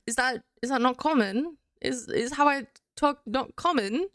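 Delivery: lilting posh English accent. Shown as a demonstration. Streamer asking her English friend, posh English accent. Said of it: "Go for posh".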